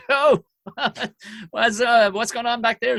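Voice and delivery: acted-out comic check on a heckler; high, put-on questioning; awkward mock query. Acts himself addressing a wailing heckler.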